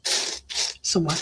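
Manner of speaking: somewhere drawn out slow and unvoiced; slow whispered search. Real, not acted. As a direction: murmur Somewhere while hunting for it. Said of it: "in here somewhere".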